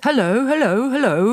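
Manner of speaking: high, loud parrot call. A narrator's reading. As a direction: shout down the chimney like a bird. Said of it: "a voice came loud and clear".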